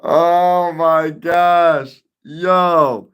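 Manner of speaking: high, slow, loud laughing gasp; cracking up. Real, not acted. Streamer reading a viewer's joke, bursting into laughter. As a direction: laugh out the words in disbelief.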